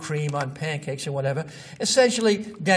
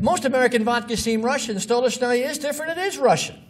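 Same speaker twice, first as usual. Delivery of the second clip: higher, punchy announcer read; 6 semitones higher, 3 dB louder than usual. Retold or imitated. Quoting the Stolichnaya ad to the class, announcer voice. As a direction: sell it like a vodka commercial. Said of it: "Then along came this ad".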